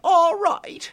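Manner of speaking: very high, slow weepy little voice; tiny pixie voice. Acted. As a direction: whimper like a tiny crying pixie. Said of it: "a little voice said".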